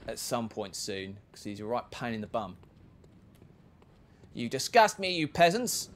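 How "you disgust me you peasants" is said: lightly voiced snooty aristocrat; a hint of a pompous noble; haughty Percy. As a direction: sneer down at the peasants. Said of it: "That's what he sounds like when he gets angry".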